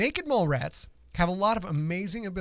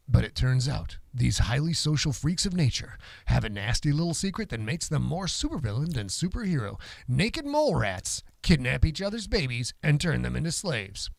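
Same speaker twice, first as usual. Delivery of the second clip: a hint of a fighting game announcer; 3 semitones lower than usual. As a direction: lightly lower dramatic announcer read. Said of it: "Now I'm gonna go into my announcer voice".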